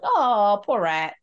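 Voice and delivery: drawn-out, falling "oh" of sympathy; mock pity. Pitying a dead rat in the film, mock sympathy. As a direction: coo in sympathy, lightly put on.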